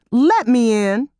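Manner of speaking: don't ask, tell him to open up; firm order. A narrator's reading. Terry at the buzzer ordering Harrison to let her in, firm command. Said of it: "she ordered".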